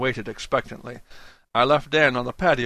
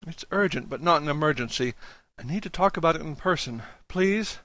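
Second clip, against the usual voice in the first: put-on anxious young man, higher voice; 4 semitones higher than usual. Julius pleads for help on phone.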